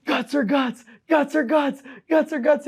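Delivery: high, loud repeated chant; imitated catchphrase. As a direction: hammer it out high like someone's signature catchphrase. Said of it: "I was imitating one of his things".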